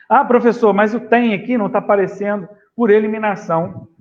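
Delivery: lightly voiced student, pitched a little up; student's objection. Student objecting to the professor about the question, lightly acted protest. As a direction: pipe up like a pupil querying the teacher.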